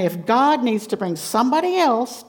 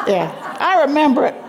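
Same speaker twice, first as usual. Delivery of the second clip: laughing; 7 semitones higher, 5 dB louder, faster than usual. Real, not acted. Laughing about Catholic upbringing.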